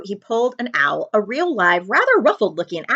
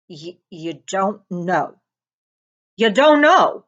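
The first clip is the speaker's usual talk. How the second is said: incredulous; 5 dB louder, slower than usual. A narrator's reading. Hagrid incredulous.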